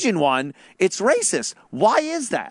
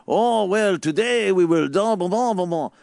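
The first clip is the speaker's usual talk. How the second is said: a hammed-up French accent, pitched a bit higher, mocking the ad; 5 semitones higher than usual. Mocking the Sonic commercial guys to his co-host, in a jokey mock French accent. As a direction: parody the Sonic ad guys' put-on French accent. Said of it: "they were doing some French thing".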